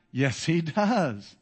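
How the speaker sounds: "Yes, he does" stretched out slowly; emphatic answer. Real, not acted. Preacher answering own question on conviction, "Yes, he does" emphatic and slow.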